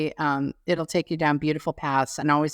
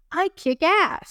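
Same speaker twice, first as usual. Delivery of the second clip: triumphant brag; 12 semitones higher, slower than usual. Real, not acted. Singer boasting to cohost, high and proud. Boasting about bass range.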